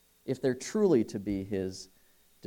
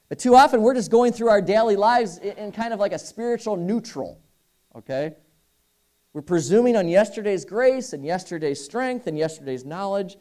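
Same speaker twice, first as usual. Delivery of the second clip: raised, higher preaching push; preaching at full force; 7 semitones higher, 7 dB louder than usual. Real, not acted. Preacher warning the congregation, loud and high. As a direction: drive the warning home to the room.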